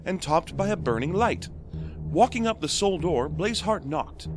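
gentle bedtime storyteller voice; story narration. Acted. Podcast host reading a donor's story to listeners, storybook narration. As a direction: read it like a fairy tale to kids.

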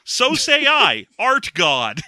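slow, grand mock sermon; mock god pronouncement. A podcaster hamming up a god decreeing clean holes. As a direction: boom it like a hammed-up deity.

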